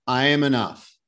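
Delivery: P=A; booming motivational speech. Shown as a demonstration. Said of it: "Do it".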